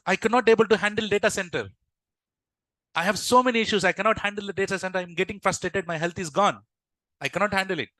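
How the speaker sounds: acted-out exasperated venting; frustrated. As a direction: pour out the worries in a hurried rush. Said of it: "in this frustrated situation".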